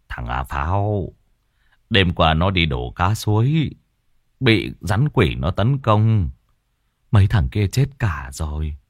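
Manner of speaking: a hint of a somber man; grim explanation. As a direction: lay out the bad news heavily. Villager explains grimly.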